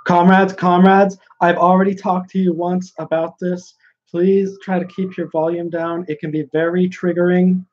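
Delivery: high-pitched mockery of an easily triggered delegate; mock socialist delegate. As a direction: send up an exasperated comrade scolding the room. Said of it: "And then he comes back".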